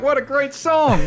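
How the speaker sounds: high, loud shout through laughter; loud cheering. Acted. Player cheering the drunk singer, loud and laughing. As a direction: yell it out, laughing.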